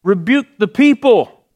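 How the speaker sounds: a touch of a haughty Pharisee; indignant demand. Retold or imitated. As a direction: snap the command like an offended official. Pharisees demand Jesus silence crowd.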